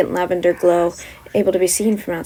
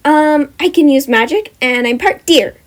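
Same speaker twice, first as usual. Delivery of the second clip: higher, louder, casual answer; wizard girl; 6 semitones higher, 7 dB louder than usual. Acted. Wizard telling students what she is, casual. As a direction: say it simply.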